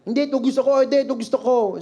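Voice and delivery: mock tantrum demand; child's tantrum. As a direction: play a child refusing to be hushed. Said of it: "nagtatantrums na".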